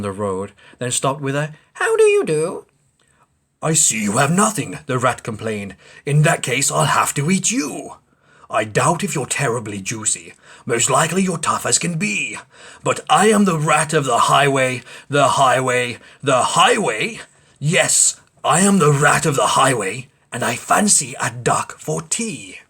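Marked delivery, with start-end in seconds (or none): 1.7-2.7 very high breathy duck greeting; a sweet polite whisper of a duck; high little duck whisper. Acted. 3.6-22.6 greedy rat. Acted.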